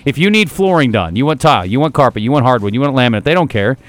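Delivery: upbeat sponsor read in the host's own voice; live radio ad read. Acted. Radio host pitching a local sponsor to his listeners, upbeat ad read. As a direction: sell the flooring store to the listeners.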